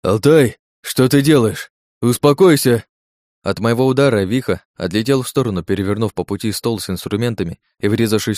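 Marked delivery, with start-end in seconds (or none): 0.0-2.8 loud, higher cries for calm; alarmed shouting. Acted. Frightened doctor shouts at the escaping patient, alarmed. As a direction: yell at him to stop. Doctor panics as he's attacked.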